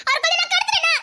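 bitter laugh. Acted.

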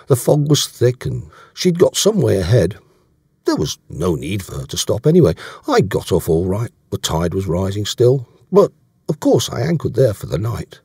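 lightly voiced sailor making excuses; a hint of a defensive sailor; Davies, explanatory. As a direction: explain it away earnestly. Voicing Davies in dialogue.

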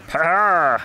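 high mock outburst noise; imitated team reaction. Gamer acting out how everyone will react, mock outburst. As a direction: let out a high, drawn cartoon cry. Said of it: "they're all gonna be like".

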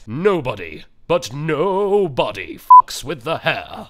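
slow, loud, emphatic "fucks"; defending his hair; stressed threat. Acted. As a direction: lean hard on each word.

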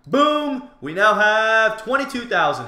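high, loud burst of triumph; triumphant announcement. Real, not acted. Player celebrating his cactus sale, triumphant. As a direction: boom it out as the cash lands.

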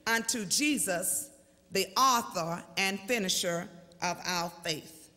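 slow, measured preacher's reading; letter read as sermon. Acted. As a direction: read each phrase out like a pulpit proclamation. Reads his letter to congregation.

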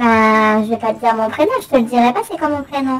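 voice changer. Pretend. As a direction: keep the voice changer on. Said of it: "voix modifiée".

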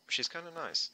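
whispering. Real, not acted. Aside about a friendly character.

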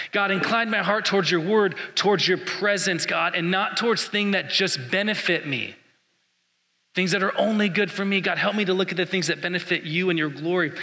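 earnest prayer voice; spoken prayer. Acted. Pastor praying the psalm over the church, earnest. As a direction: pray it out sincerely to God. Prays aloud for the congregation.

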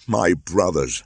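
a loud, anguished cry. Acted. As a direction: cry out to them in grief. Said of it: "cried Mowgli".

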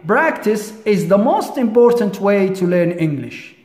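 slow, measured model sentence; slow example reading. Shown as a demonstration. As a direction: read it out slowly for learners. Teacher repeats the example sentence.

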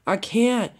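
high, strained-effort reply; calling back. Acted. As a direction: protest back to a friend. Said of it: "she called back to".

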